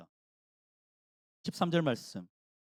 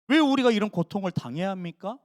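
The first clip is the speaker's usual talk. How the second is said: mild complaining question to God; a hint of a sulky protest; grumbling complaint; 3 dB louder than usual. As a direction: ask God why, half sulking. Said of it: "푸념하고 있는 거예요".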